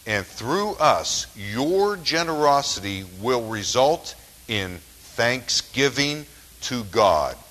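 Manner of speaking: slow, weighty Bible reading; Scripture reading. Acted. Preacher reading the key verse to the congregation, slow and emphatic. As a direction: draw out the key verse slowly, stressing key words.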